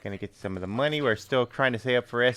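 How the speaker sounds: put-on thick Chicago Bears fan accent. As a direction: play a Chicago Bears superfan. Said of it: "do Chicago Bears accent".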